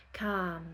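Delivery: "Calm" with no L, kahm; silent L. Shown as a demonstration. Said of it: "On prononce pas le L".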